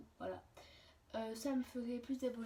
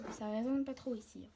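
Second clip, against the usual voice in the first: echoey room. Real, not acted. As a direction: voice bouncing off bare walls. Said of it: "ça résonne trop". (voix qui résonne dans une pièce vide)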